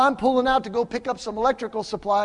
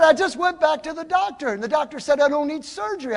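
high-pitched, eager retelling; excited good news; 8 semitones higher than usual. Retold or imitated. Young man tells pastor about the doctor, excited good news. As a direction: imitate someone bursting with news, pitched up.

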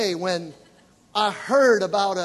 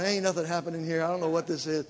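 softer, mildly doubtful inner voice; puzzled aside; 4 semitones lower, 5 dB quieter, faster than usual. Retold or imitated. New convert standing there while others speak in tongues, quiet puzzled aside. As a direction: play a low-key private doubt. Retold doubting thoughts during prayer.

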